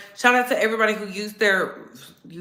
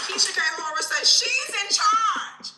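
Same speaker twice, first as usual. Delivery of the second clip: laughing; 10 semitones higher than usual. Real, not acted. Laughing high mock.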